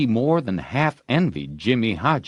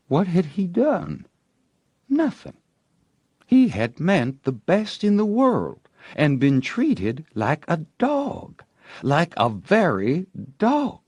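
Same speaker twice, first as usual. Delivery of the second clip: higher, aggrieved, as if wronged; wounded indignation; 8 semitones higher than usual. A narrator's reading. Tom broods over the girl, higher and aggrieved. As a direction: protest the unfairness like a hurt boy. Tom's wounded self-pity.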